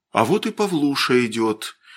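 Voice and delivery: ordinary talk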